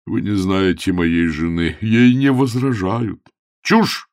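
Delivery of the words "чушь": very high, loud scornful cry. A narrator's reading. Augustine dismissing the wife's rule, crying out. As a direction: fling the word out in scorn. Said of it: "Вскричал Августин".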